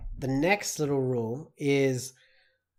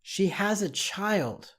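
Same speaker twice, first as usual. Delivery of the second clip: slow dictation; 5 semitones higher, slower than usual. Shown as a demonstration. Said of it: "the next one".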